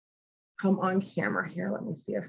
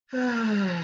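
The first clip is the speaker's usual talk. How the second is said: little sigh. Shown as a demonstration. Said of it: "and then give a little sigh".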